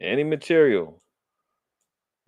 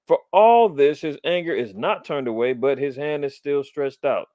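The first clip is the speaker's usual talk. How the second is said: scripture reading. Acted. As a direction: read the prophecy like a preacher. Reads scripture again.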